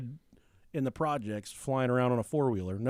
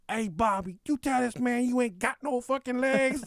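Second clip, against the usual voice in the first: high, hammed-up bystander calling out; imitated sassy yelling; 9 semitones higher than usual. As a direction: butt into the quarrel with comic insistence. Bystander yells into the quarrel.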